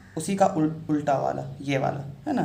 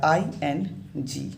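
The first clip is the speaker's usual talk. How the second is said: letters spelled out very slowly; slow spelling; much slower than usual. Shown as a demonstration. Teacher spelling out the ending for students, very slowly. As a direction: lay out each letter slowly for the class. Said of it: "इसका pronunciation जो होगा".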